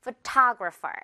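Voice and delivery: Photographer with the stress on TO; stress on the second syllable. Shown as a demonstration. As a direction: say Photographer as pho-TO-gra-pher. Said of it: "같이 한번 해볼까요?".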